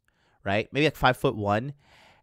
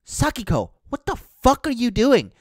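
high, incredulous mock outburst; raised voice, reenacting bewilderment; retold alarmed protest; 12 semitones higher, 6 dB louder than usual. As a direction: act out shocked objection. Retold protest while being wrestled.

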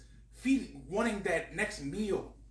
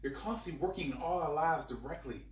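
earnest spoken prayer. Real, not acted. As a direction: pray it sincerely. Prays aloud to the Lord.

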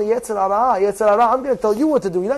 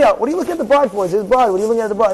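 scolding rabbi; 3 semitones lower, much faster than usual. Acted. Rabbi scolding student dialogue.

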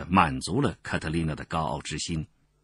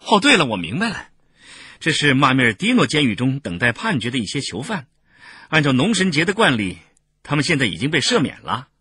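excited, higher-pitched character voice; sudden realization; 6 semitones higher, 4 dB louder than usual. A narrator's reading. Bystander working out who the newcomers are, excited realization. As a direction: exclaim it as it dawns on you.

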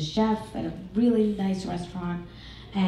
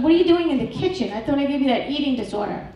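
mock outrage; 6 semitones higher, 5 dB louder than usual. Mother yells at daughter, story.

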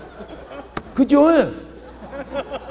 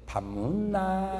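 much softer, slow and coaxing; sweet to bar hostess; 11 dB quieter, slower than usual. Shown as a demonstration. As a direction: croon it softly to charm her. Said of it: "술집 여자한테 물어볼 때". (술집 여자에게 달콤하고 부드럽게)

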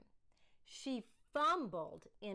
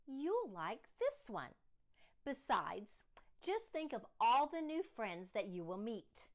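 reassuring father; 3 semitones higher, 5 dB louder than usual. Acted.

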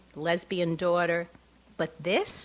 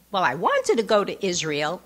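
put-on Jewish accent. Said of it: "I'm making him sound like he has a Jewish accent".

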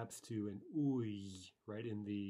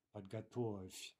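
slow model repeat; slower than usual. Shown as a demonstration. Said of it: "teacher repeats form slowly".

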